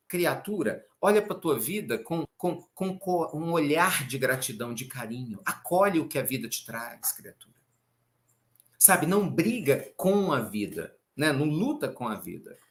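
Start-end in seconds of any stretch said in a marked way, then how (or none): 0.1-7.5 tender counsel. Retold or imitated. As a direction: coax the listener kindly. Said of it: "Tomás de Kempis está dizendo".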